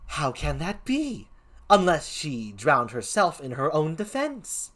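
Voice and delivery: lilting comic gravedigger; put-on Shakespearean clown; first clown voice. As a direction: question it as a swaying, sing-song clown.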